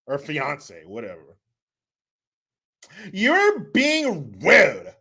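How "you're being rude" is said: slow mock scold. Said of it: "That's what she said".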